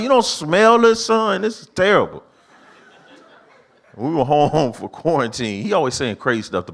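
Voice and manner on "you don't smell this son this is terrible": disgusted disbelief. Retold or imitated. Dad gagging at son's smell.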